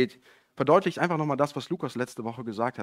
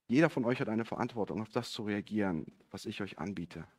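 lower, softer voice sinking toward the end; solemn quote; 5 semitones lower, 7 dB quieter than usual. Retold or imitated. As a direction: quote it gravely, letting the voice drop. Voicing Jesus addressing his listeners solemnly.

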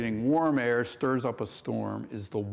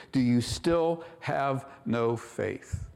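slow question; slower than usual. Shown as a demonstration. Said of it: "asking you and me those very questions".

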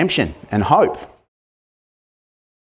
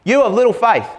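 shouted rebuke; 9 semitones higher than usual. Shown as a demonstration. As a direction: bellow it over the wind and waves. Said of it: "Sorry to scare you".

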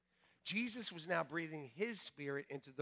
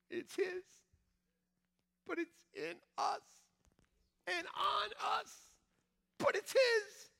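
emphatic. Real, not acted. Emphatic preaching.

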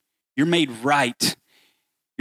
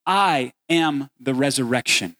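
proclaiming Jesus. Acted. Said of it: "what Jesus says is".

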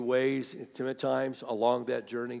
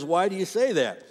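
higher, louder puzzled question; retold astonishment; 7 semitones higher, 8 dB louder than usual. Shopper questioning the cashier, astonished. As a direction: ask it in acted amazement, voice raised.

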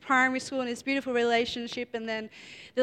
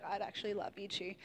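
retold crying; 5 semitones lower, 13 dB quieter than usual. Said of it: "and she starts crying".

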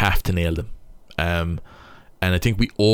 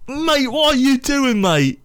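high, strained, pleading mock teammate; hammed-up baffled mate, voice cracking upward; exasperated teammate; 10 semitones higher, 4 dB louder, slower than usual. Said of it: "it's, it's like".

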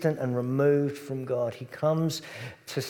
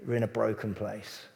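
softer, lower, consoling; gentle comfort; 4 semitones lower, 5 dB quieter than usual. Acted. Jesus comforting people in a broken world, soft and low. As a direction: speak comfort to a hurting listener. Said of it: "Jesus might say to us".

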